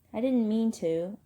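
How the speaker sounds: apologetic, drawn-out pleading. Acted. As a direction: plead your innocence to an angry brother. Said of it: "I pleaded with Derry".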